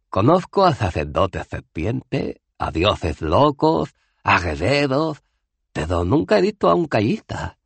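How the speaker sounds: Cohen, más agudo y fuerte, divagando con orgullo; el viejo héroe presume, voz alta y lenta a ratos; viejo bárbaro Cohen. Acted. (viejo guerrero Cohen, agudo y fuerte)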